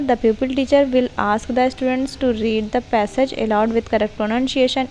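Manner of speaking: very slow, every word spaced for note-taking; slow dictation. Shown as a demonstration. Teacher dictating a model question to trainee teachers, very slow. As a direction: spell it out slowly so they can write it down. Dictates lesson plan text.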